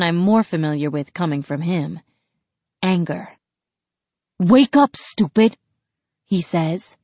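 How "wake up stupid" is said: sharp angry yell; shouting. Acted. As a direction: bark it at him. Brother yells at narrator.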